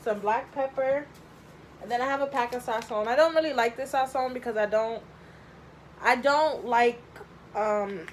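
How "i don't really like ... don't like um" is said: throat catching, coughing between words; choking. Real, not acted. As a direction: talk while choking a little. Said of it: "I'm really choking right now".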